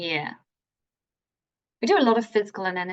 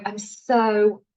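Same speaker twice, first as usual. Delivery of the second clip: mock overjoyed, slow and drawn out; louder, stretched-out words with exasperated energy; same annoyed energy; 5 dB louder, much slower than usual. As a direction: say it slowly as if annoyed. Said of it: "I say it with the same energy".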